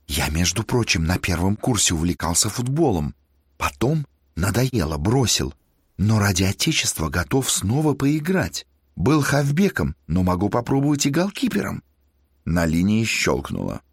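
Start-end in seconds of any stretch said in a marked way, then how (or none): 0.1-11.8 ingratiating. Acted. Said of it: "Голос студента стал вкрадчивым".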